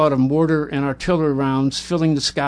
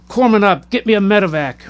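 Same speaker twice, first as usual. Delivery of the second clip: urgent call; 5 semitones higher, 4 dB louder, faster than usual. Acted. Gunny calling for help.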